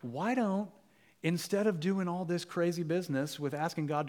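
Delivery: a plotter whispering a tempting plan, soft and sly; sneaky suggestion. Retold or imitated. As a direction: coax it softly like a schemer. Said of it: "he has this sneaky idea".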